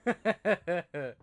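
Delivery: loud laughing yell; laughing frustration. Real, not acted. Gamer dying, laughing and cursing loudly. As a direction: laugh and curse at once.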